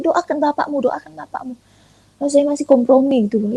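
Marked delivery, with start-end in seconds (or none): 0.0-1.5 a higher inner voice that fades toward a hush; quiet voice in the heart, urging; soft inner voice. Retold or imitated. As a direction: let the inner prompting drift away softly. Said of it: "muncul lagi di hati saya".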